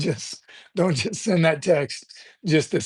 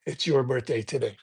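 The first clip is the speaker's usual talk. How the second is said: muted reply; 2 semitones lower, 6 dB quieter than usual. Retold or imitated. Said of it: "It's like".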